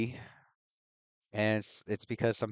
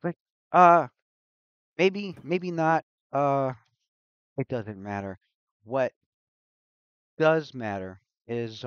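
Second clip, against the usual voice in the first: lightly voiced loopy mage, louder; hyperactive mage, scattered; 4 semitones higher, 10 dB louder, slower than usual. Loopy mage rambling to Luna after bumping into her, scattered. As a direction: think aloud in fits and starts, a bit raised.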